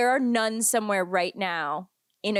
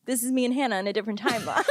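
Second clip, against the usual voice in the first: fast, laughing through the words; giddy laughing rush; 3 semitones higher, much faster than usual. Real, not acted. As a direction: rattle it off while cracking up. Laughing at a shared joke.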